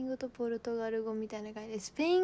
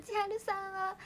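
笑い泣き; 9 semitones higher than usual. Real, not acted. 笑いながら泣き声.

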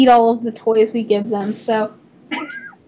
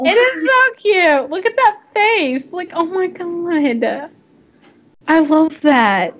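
gushing; 5 semitones higher than usual. Real, not acted. Gushing over horse picture.

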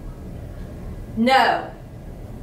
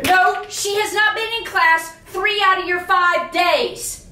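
heated, insistent scolding; worked up. Acted. Boss scolding teacher over missed attendance, worked up. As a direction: hammer the facts home in anger. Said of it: "like, down thirty notches".

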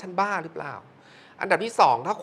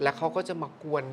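ordinary delivery

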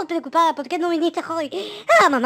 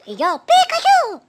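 much higher, slow squeaky creature; high, louder Pikachu mom; 13 semitones higher, 9 dB louder, slower than usual. Acted. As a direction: chirp it like a cartoon mouse.

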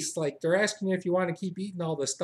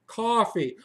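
annoyed refusal; 4 semitones higher than usual. Retold or imitated. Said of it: "I'm like".

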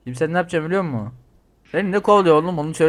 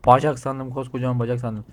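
laughing. Real, not acted. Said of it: "Ulan bacak sandım".

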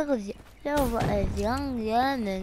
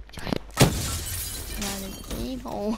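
holding tongue. Pretend. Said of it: "say China while holding your tongue".

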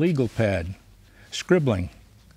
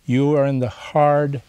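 imagined words of the kind therapist, tender and reassuring. Retold or imitated. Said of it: "It was like she was saying".

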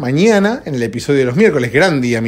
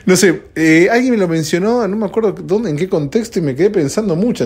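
raised voice; 5 semitones higher than usual. Real, not acted. Host raising his sleepy morning voice, pitched up high. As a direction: pitch it up like waking yourself up. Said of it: "estoy levantando un poquito la voz".

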